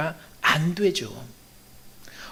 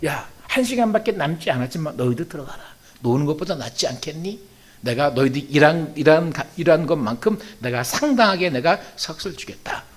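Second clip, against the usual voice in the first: lower, quieter quoted speech of an employer; lightly voiced vineyard owner; 3 semitones lower, 5 dB quieter than usual. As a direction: lightly act out an employer making an offer. Voices vineyard owner hiring idle workers.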